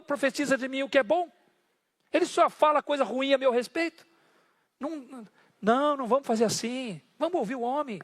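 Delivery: a grumpy king who dislikes the prophet; reluctant grumbling king. Acted.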